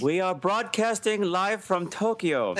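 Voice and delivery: laughing through a fake broadcast. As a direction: giggle through the line. Joking mock newscast.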